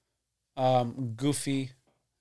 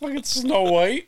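Snow White voice; 11 semitones higher, 5 dB louder, slower than usual. Pretend. Mocking high voice.

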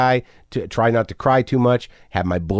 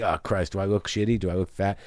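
much softer, anxious self-talk; worried inner voice; 5 semitones lower, 7 dB quieter than usual. Retold or imitated. His brain nagging him about weight, hushed. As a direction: mutter the fear to yourself.

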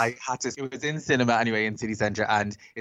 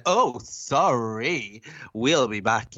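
drawn-out, playing-to-the-crowd sorry; showy mock apology; much slower than usual. Drag queen playing life and soul to cinema staff, showy mock apology. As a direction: stretch out a theatrical sorry. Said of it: "trying to be the life and soul of the party".

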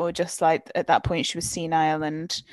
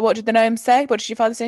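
louder, playful mum; mock mother; 4 semitones higher, 7 dB louder, faster than usual. Mother asking what the gnome said, playful. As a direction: play up the mock question. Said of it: "she'd be like".

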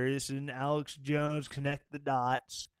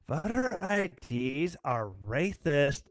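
slow mock Valley Girl drawl, the duh punched loud; lightly voiced valley girl mocking a chat comment; Valley Girl accent; 5 dB louder, slower than usual. Mocking a viewer's comment in a Valley Girl accent. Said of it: "I gave you a Valley Girl accent".

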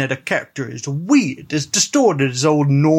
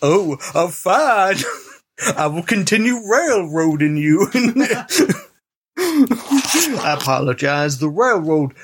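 a lightly put-on old-West saloonkeeper; saloon owner cowboy; 2 semitones higher than usual. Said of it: "the voice Youth is doing".

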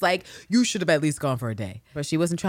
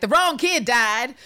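stern father; 6 semitones higher, 5 dB louder, slower than usual. Retold or imitated. Father's line in parody.

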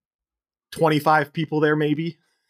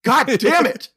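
high, loud mock exasperation; hammed-up furious curse; acted angry outburst; 10 semitones higher, 5 dB louder, slower than usual. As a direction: cry it out in imitated fury. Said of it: "she walks away just going".

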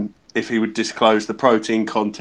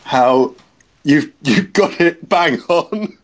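excited; 5 semitones higher, 4 dB louder, slower than usual. Real, not acted. Surprised announcing he got it.

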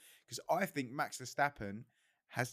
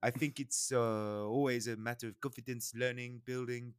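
bad Italian accent. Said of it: "my terrible Italian accent".

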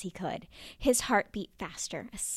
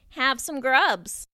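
eager offer; 4 semitones higher, 8 dB louder than usual. Acted. Bears offering.

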